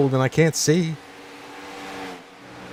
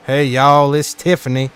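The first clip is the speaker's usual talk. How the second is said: Southern Belle voice; 2 semitones higher, 3 dB louder than usual. Pretend. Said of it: "Southern Belle".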